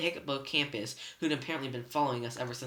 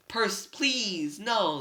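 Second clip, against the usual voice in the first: high, slow, pitiful begging; a beaten monster pleading not to die; moaning plea; 7 semitones higher, 5 dB louder, much slower than usual. A narrator's reading. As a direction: beg for mercy, drawn out. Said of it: "the Cyclops moaned".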